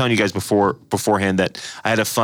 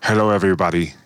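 a light Schwarzenegger-style announcement; mock-grand Arnold introducing himself; Arnold impression; 3 semitones lower than usual. Co-host shows the impression he almost did, as Arnold. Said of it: "I almost did Arnold again".

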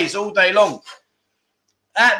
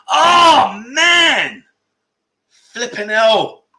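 mock outrage; 6 semitones higher, 4 dB louder, much slower than usual. Mock dismay at losing quiz.

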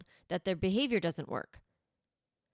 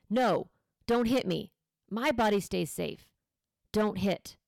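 louder, steady no-nonsense commands; firm voice; 4 dB louder than usual. Shown as a demonstration. Mom to a child who hits her, firm louder voice. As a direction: draw a clear line, no anger. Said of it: "using that firm voice".

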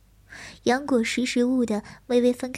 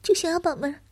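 higher, hesitant fearful telling; frightened young man; 3 semitones higher than usual. Acted. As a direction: recount it timidly, voice raised.

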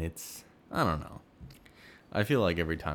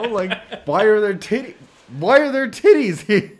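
squeaky high voice; 16 dB louder than usual. Acted. High-pitched silly exclamation.

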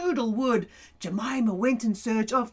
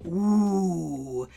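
curious ooh; 5 semitones lower than usual. Acted. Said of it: "leaned forward and went".

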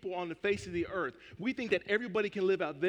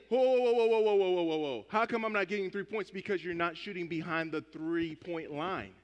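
mock outraged whoa. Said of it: "And he's saying".

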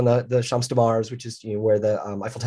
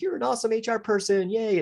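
mock praise; 10 semitones higher, 5 dB quieter than usual. Mocking the award message.

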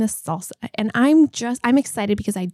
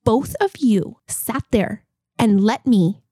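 slow, deliberate mock-indignant scolding; retold ticked off. Retelling how she scolded husband and friend, mildly ticked off. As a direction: draw out the accusation, imitating your annoyed self. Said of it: "I was so ticked off".

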